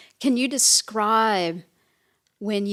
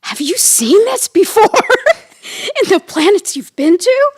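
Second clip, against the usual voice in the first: mock alien; 11 semitones higher, 12 dB louder than usual. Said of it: "acting like we're aliens".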